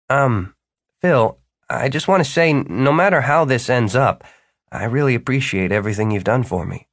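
a touch of hesitant sincerity. Acted. Martin thanking his mentor before the trial, mildly hesitant. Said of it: "Martin hesitated".

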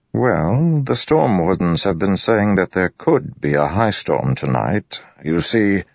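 polite but guarded lord; wary nobleman. Acted. Narrator voices Royan.

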